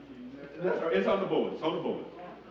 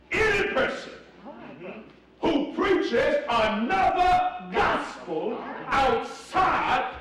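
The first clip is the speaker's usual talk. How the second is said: preaching shout; 3 semitones higher, slower than usual. Real, not acted. Preaching climax on curses.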